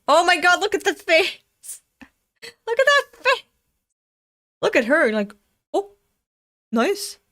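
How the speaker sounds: high, loud squealed exclamations; thrilled shock. Real, not acted. Viewer reacting to a decapitation, thrilled high squeal.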